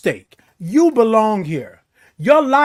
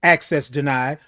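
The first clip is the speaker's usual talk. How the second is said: system voice; 6 semitones lower than usual. Pretend. Machine refusing the code.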